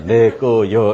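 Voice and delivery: "내 거요" drawn out, each syllable apart. Acted. Giant's three-letter notice, "내 거요" read out syllable by syllable. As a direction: spell out "내 거요" as three separate beats. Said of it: "세 글자".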